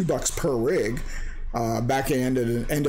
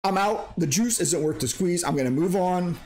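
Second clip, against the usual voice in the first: higher, unbothered shrug, lightly done; a touch of breezy don't-care; walking away with a casual "eh"; mild shrug; 5 semitones higher than usual. Retold or imitated. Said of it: "where you say".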